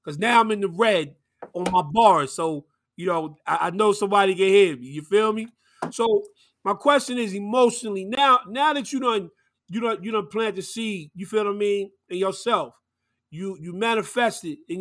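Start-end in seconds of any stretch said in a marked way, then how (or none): 0.0-11.1 projecting voice. Real, not acted. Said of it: "let me get to project my voice".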